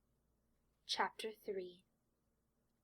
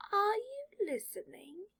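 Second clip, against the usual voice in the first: much higher, louder, sharp interruption; impatient sorting hat; 12 semitones higher, 4 dB louder than usual. Acted. Sorting hat loses patience with distracted Draco, high and sharp. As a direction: snap him out of his thoughts.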